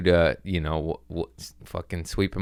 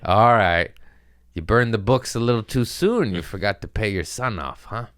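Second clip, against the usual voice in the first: mock scolding dad; 3 semitones higher, 5 dB louder than usual. Mocking dad over unpaid money.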